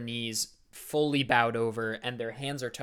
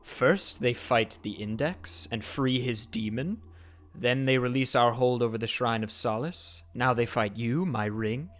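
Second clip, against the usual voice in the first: voice in the flame; 3 dB louder than usual. Acted. The flame priest questions his servant, cold and distant. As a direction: speak as a far-off master through flames.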